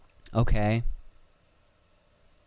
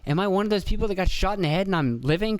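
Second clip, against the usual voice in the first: dazed inner voice; 8 semitones higher than usual. Retold or imitated. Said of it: "he had to have been like".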